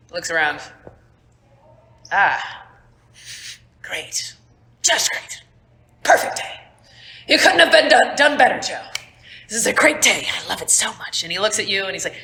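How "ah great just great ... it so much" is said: high sarcastic complaining voice; a fed-up man mocking the day; sarcastic gripe. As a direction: grumble it with heavy sarcasm. Sarcastic NPC Wilford.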